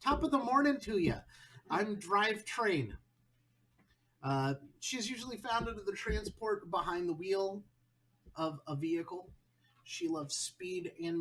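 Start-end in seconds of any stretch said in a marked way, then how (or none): 0.0-7.1 put-on Ben Nunn's Irish accent. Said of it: "I'll try the Ben Nunn Russian accent".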